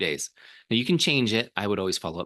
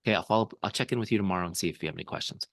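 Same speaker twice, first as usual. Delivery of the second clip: quick promise; faster than usual. Shown as a demonstration. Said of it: "promise the follow-up and tell 'em when".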